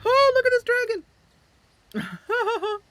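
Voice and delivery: thrilled by the dragon right in view; excited. Real, not acted. Dragon appears on screen.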